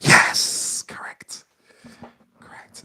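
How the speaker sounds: whispered answer reveal. Acted. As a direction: breathe the words, no voice.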